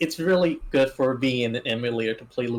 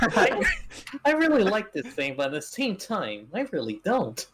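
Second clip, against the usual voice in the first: Scott the Woz voice; 6 semitones higher than usual. Retold or imitated. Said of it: "how Scott the Woz speaks".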